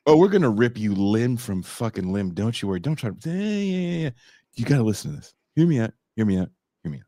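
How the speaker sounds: low voice, talking someone round; mock pushy Hellraiser.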